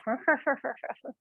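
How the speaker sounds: a short mock-evil laugh; Doctor Evil laugh. Shown as a demonstration. Teacher showing kinds of laughs, Doctor Evil laugh. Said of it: "the Doctor Evil laugh".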